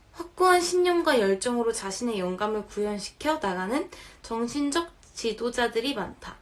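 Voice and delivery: slightly slurred speech around a retainer; lisping through braces. Real, not acted. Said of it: "교정기 때문에 발음이 좀 새는 건".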